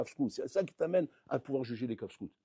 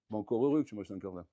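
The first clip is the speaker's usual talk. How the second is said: put-on cheeky child retort; 7 semitones lower, 3 dB quieter, faster than usual. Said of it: "ce qu'il te dirait".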